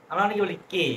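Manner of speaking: কে said without aspiration, the common mistake; wrong plain K. Shown as a demonstration. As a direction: show the unaspirated কে learners wrongly use. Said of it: "কে না, এটা খে".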